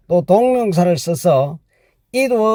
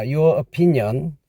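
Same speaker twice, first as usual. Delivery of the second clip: slow emphasis; 4 semitones lower, 4 dB quieter, much slower than usual. Shown as a demonstration. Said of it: "주어는 your opinion".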